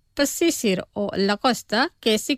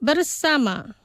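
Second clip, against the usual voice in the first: slow, careful model pronunciation; pronunciación despacio; 2 semitones higher, slower than usual. Shown as a demonstration. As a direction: say it slowly for learners to repeat. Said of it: "Los pronunciaré despacio". (pronunciado despacio, para repetir)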